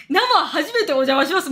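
mock leering greeting; creepy read-aloud. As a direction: read it like a creepy fan with a rising end. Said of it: "無理やろ。".

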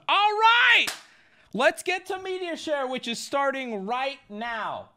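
high, loud showman kickoff; hype host intro. Acted. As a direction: kick off the segment like a game show host. Restarts stream segment as showman.

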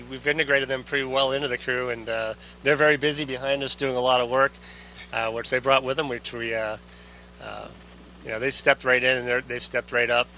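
distant radio transmission voice; sci fi communicator. Real, not acted. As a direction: talk as if through a space radio. Astronaut answers over radio downlink.

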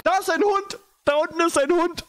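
very high, excited squeal; delighted outburst, pitch shooting right up; gleeful exclamation. Real, not acted. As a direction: point it out on the edge of laughter. Spots the dog, cracking up.

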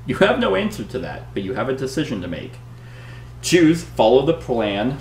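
dramatic read-aloud narration; story narration. Acted. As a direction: read it like an adventure gamebook. Reads the gamebook choices aloud.

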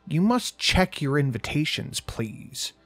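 a hint of a stern old woman, creaky; lightly voiced old lady barking orders; creaky drill-sergeant crone. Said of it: "between a creaky door and an angry drill sergeant".

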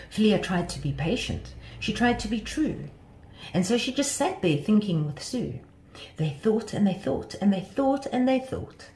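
lilting read of a rhyming tale; children's story narration. A narrator's reading. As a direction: tell it to children, line by line.

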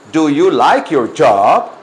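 slow, drawn-out teacher model; spoken slowly and deliberately for repetition; slow modelling. Shown as a demonstration. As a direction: stretch each word for learners to copy. Teacher models phrase for class.

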